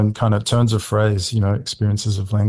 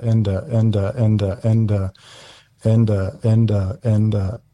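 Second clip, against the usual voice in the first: sound poetry. Acted. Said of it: "a sound poem out on radio".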